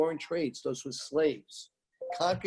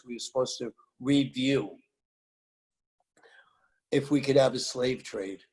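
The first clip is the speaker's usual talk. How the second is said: conspiratorial whisper; 3 semitones lower than usual. Real, not acted. Dramatic reveal of hidden fact.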